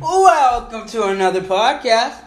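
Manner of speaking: sing-song podcast welcome; lilting host voice. Shown as a demonstration. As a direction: lift it like a chirpy host. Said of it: "you just can't do it".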